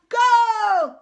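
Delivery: loud, high goal shout; triumphant yell; victory yell. A narrator's reading. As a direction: roar it again and again. Repeated goal celebrations.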